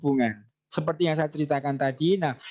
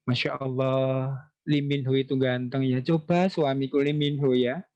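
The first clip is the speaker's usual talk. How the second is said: gushing mother, lightly voiced; 3 semitones lower than usual. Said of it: "tetap menggunakan kata yang ahsan".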